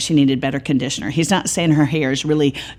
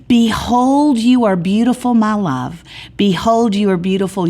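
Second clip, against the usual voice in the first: king declaring love to his bride, impassioned; ardent vows; 4 semitones higher than usual. Acted. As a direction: proclaim it like a groom at the altar. He turns to her in front of everybody.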